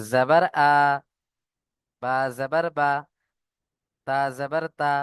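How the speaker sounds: আ, বা, তা clipped short like a brief a sound; short a vowel. Shown as a demonstration. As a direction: say আ, বা, তা short and quick, no drawl. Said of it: "জবর এর উচ্চারণ হবে আকারের মতো". (জবরের ছোট আ উচ্চারণ)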